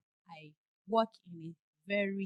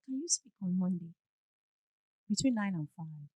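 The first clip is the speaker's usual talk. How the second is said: lower, calm and firm; calm assertive tone; 3 semitones lower than usual. Shown as a demonstration. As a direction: set the boundary politely but firmly. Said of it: "This is my tone. Do you hear the difference?".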